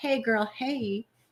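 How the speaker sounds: put-on quiet, little girl's child voice. Greeting a co-host by imitating little granddaughters' greeting. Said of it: "My little granddaughters go".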